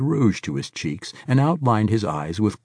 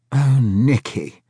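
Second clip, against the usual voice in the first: put-on sad old man; 5 semitones higher, 6 dB louder, slower than usual. A narrator's reading. Sad sigh.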